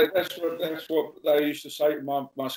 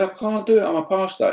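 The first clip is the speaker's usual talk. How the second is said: high refusal; 7 semitones higher than usual. Retold or imitated. Refusing mate again.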